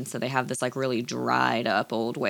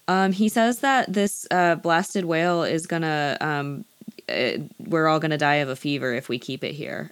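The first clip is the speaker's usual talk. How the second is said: stalling interpreter. Retold or imitated. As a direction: improvise a translation, stalling on the ums. French sailor stalls while fake-translating.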